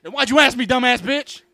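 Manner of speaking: high, loud cartoonish snapping; loud mock outrage; mock irritation. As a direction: fire back in a hammed-up shrieky voice. Mock retort inside cartoon skit.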